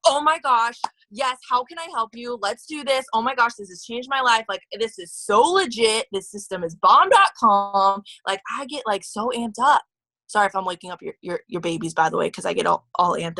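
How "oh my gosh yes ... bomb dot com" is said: gushing excitement. Retold or imitated. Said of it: "I am like, I'm a crazy person".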